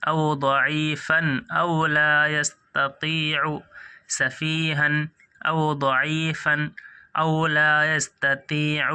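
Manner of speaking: slow, measured reading; slow recitation. Shown as a demonstration. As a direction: read each word deliberately. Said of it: "جلدی پڑھیں گے دوستو۔".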